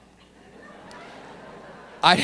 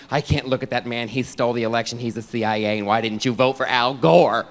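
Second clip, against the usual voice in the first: lower, subdued complaining voice; lightly imitated wife; 4 semitones lower than usual. Wife hates the president, low grumbling complaint. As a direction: grumble a mock wifely complaint. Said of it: "My wife hates him".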